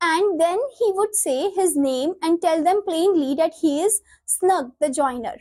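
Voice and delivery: slow, deliberate textbook read-aloud; measured classroom reading. Acted. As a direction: read the script out slowly, word by word. Reads play lines aloud.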